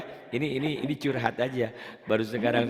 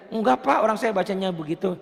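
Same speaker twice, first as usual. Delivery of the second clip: stubborn learner; 6 semitones higher than usual. Retold or imitated. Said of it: "Tetep dia".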